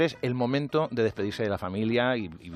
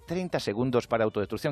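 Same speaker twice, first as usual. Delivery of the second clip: kind computer voice. Retold or imitated. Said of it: "una voz muy amable".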